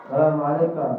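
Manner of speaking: loud greeting called through a door; calling greeting at door. Acted. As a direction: call it out to be heard inside. Angel greeting at Rasul's door. (salam lantang dari balik pintu)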